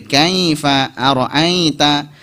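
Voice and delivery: "kaifa ara'aita" with nasal AI glides; wrongly nasalised. Shown as a demonstration. Teacher showing the fault, "kaifa ara'aita" nasalised. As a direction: send the "ai" in "kaifa ara'aita" into the nose. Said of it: "jangan sampai masuk ke hidung".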